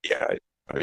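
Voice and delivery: choppy, breaking-up call audio; bad connection. Real, not acted. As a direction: voice dropping out like a bad line. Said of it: "You sound a little choppy to me now".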